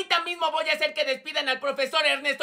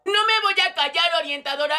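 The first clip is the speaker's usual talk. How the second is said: defiant yelling. Acted. Regina talks back to the school counsellor, defiant yell. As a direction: refuse to be silenced. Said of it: "Los gritos de Regina se escuchan".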